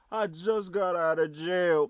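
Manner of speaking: breathy mocking whisper of his excuse. Streamer mimics the man's prison excuse in a mocking whisper. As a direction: whisper his words back to sneer at him.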